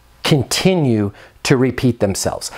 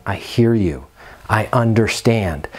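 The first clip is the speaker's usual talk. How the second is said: empathetic; 5 semitones lower than usual. Shown as a demonstration. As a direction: drop the voice and reassure. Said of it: "Now notice my inflections in my voice".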